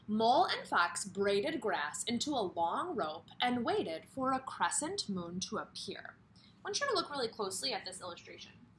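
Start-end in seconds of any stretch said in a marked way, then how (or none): 0.1-6.2 a lightly animated storybook read; reading to children. Acted. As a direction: read it gently to a class of kids. Reads the story aloud.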